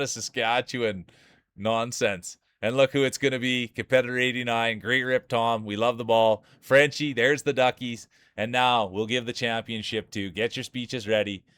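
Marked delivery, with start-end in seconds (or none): 2.6-11.4 playful ceremony host voice; awards emcee. Acted. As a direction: hype announcer crowning the champion.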